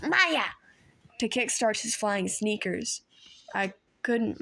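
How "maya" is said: loud high yell. A narrator's reading. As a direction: shout the magic word.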